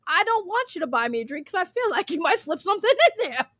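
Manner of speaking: giggling, half-crying with laughter; laughing through it. Retold or imitated. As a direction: squeeze the words out between laughs. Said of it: "I'm looking at him like".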